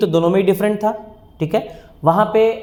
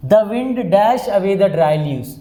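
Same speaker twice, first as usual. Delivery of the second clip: slow dictation; much slower than usual. Shown as a demonstration. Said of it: "reading exam sentence aloud".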